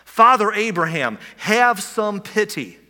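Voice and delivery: loud, slow plea to Father Abraham; rich man shouting. Acted. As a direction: call out across the gulf, begging. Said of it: "the rich man shouts".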